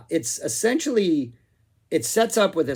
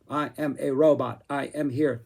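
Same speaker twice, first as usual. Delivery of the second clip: a lightly stilted robot voice with clipped-off word endings; half-hearted robot impression, choppy and stiff; staccato robot voice. Shown as a demonstration. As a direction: chop the last sounds off each word like a cheap robot. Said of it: "staccato, stilted, cut off those last syllables".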